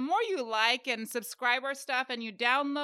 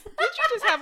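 laughing question; 10 semitones higher, 5 dB louder than usual. Real, not acted. Teasing co-host while laughing.

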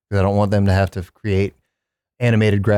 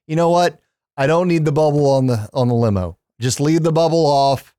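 higher, breezy presidential voice; lightly voiced careless president; JFK impression; 4 semitones higher than usual. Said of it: "He just went".

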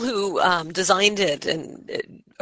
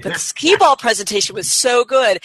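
higher, mildly gushing self-quote; lightly hammed-up delight; retold gushing; 5 semitones higher, 4 dB louder than usual. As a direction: replay your own keen enthusiasm, pitch lifted. Retells own gushing to unimpressed daughter.

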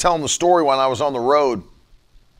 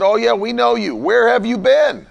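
higher, louder excited woman; a hint of a woman calling out; eager woman; 7 semitones higher, 3 dB louder than usual. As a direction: greet him eagerly, pressing him. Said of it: "She said".

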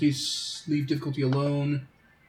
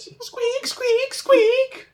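very high squeaky rat noises; rat squeaks; 6 dB louder, much slower than usual. Acted. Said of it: "making rat noises at it".

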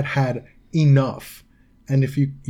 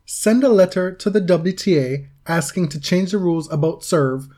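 mildly theatrical, deliberate letter reading; dramatic reading; 3 semitones higher than usual. Acted. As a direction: deliver it as a mock-solemn open letter. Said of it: "give you a dramatic reading".

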